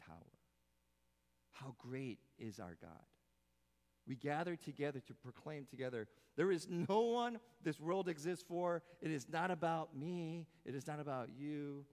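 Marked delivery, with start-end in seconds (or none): 4.1-11.9 loud, high fervent preaching; rousing preaching. Acted. Pastor rallying the church, fervent loud preaching. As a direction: drive it home to the congregation.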